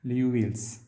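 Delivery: Liouville's as "lyoo-veels"; pronounced Liouville's. Shown as a demonstration. Lecturer repeating the name for students, Liouville's as "lee-yoo-veels". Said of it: "It is pronounced as".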